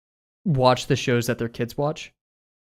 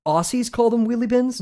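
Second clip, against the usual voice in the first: incredulous; 9 semitones higher than usual. Real, not acted. Disbelief about wheelie bins.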